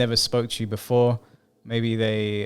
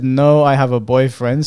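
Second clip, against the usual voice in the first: firm refusal; 2 semitones higher, 9 dB louder than usual. Retold or imitated. Reading her firm refusal.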